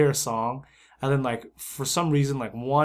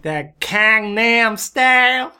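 higher, louder, slow Texan drawl; mock Texan accent; 8 semitones higher, 8 dB louder, much slower than usual. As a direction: stretch it out like a Texan yokel. Echoing the Texan mimicry.

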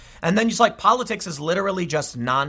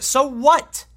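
scoffing; 10 semitones higher, 5 dB louder than usual. Real, not acted. Scoffing at the article.

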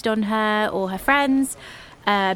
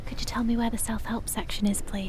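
quiet library voice; 7 dB quieter than usual. Acted. Hushed library patron.

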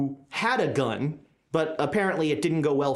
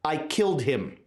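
understated, lower deadpan admission; 4 semitones lower than usual. Acted. Game master voices the man confessing, deadpan. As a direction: state it drily, a touch low. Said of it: "almost deadpan answer".

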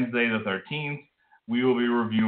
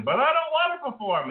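high-pitched child-singer impression; a famous child singer. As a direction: squeal it in a tiny high voice. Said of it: "kinda like a young singer".

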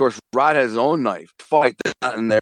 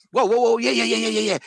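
excited whoa; 11 semitones higher, faster than usual. Retold or imitated. Reacting on smelling the joint.

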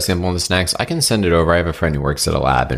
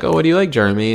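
sweet parent voice; 10 semitones higher, faster than usual. Retold or imitated. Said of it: "I was one time like".

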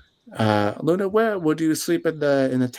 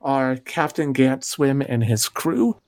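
game master narration. Acted. Game master sets the scene.

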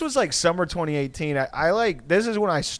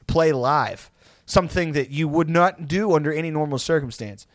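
mock incredulous scolding; 4 semitones higher than usual. Roommates spelling out his date to see a band, mock incredulous. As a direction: imitate roommates laying into him, raised and emphatic.

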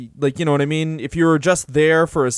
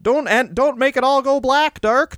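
hammed-up pleading, much higher on the climax; pleading to Brock; 4 semitones higher than usual. Pleading with Brock Lesnar not to hurt him, hammed-up and higher. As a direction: beg the monster not to hurt you, in mock panic. Begging Brock as comic victim.

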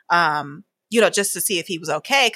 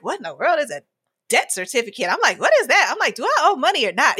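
raised, exasperated questions to the insurance lady; frustrated demand; 5 semitones higher than usual. Retold or imitated. Caller to the insurance lady, higher and exasperated. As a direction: push the questions up high, fed up.

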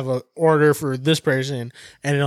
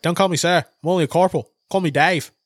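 put-on Australian accent; 3 semitones higher than usual. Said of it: "the Australian was like".

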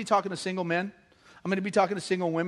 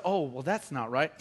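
mock objector; 8 semitones lower, 7 dB quieter than usual. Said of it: "somebody says".

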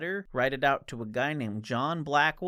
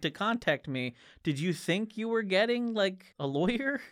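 sassy exasperation; 3 semitones higher than usual. Retold or imitated. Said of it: "Just him being like".

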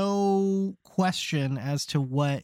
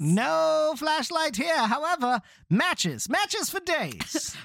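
put-on old-timey vendor; 6 semitones higher, slower than usual. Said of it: "vendor bit".

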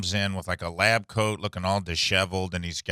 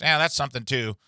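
higher-pitched, buzzing fly-like doctor; mumbling country doctor; 5 semitones higher than usual. Retold or imitated. Doctor tells patient about gallstones, mumbling impression. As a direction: imitate a doctor who talks like a fly. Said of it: "She's like".

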